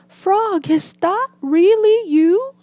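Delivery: high, amazed question; surprised Toad. A narrator's reading. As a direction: ask in disbelief, high. Toad waking up.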